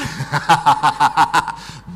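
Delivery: a short breathy laugh. Real, not acted. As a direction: chuckle at the joke. Laughing at his own joke. (tertawa kecil)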